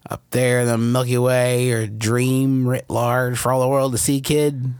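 lightly voiced fast-talking showman; a hint of a showbiz agent pitching a kid; old showbiz talent scout. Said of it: "like a Mickey Rooney type".

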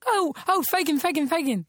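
high, eager repeated call; excited buzz-in. Real, not acted. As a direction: jump in first, eager.

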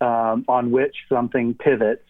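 speaking around an object in the mouth; mouth full. Real, not acted. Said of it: "a bad idea to put that in your mouth".

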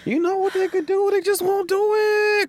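very high, whining plea, slowed; whiny pleading. Pretend. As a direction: beg in a squeaky whine. Whining that they won't book it.

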